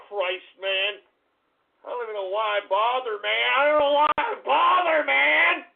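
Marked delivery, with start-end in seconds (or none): 3.6-5.6 higher and louder, fed up; louder exasperated repeat. Real, not acted. Streamer repeating his complaint to chat, exasperated and louder. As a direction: say it again, angrier.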